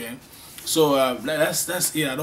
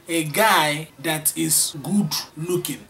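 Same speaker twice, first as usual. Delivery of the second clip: whisper; 4 dB louder, slower than usual. Acted. Teacher whispers the translation.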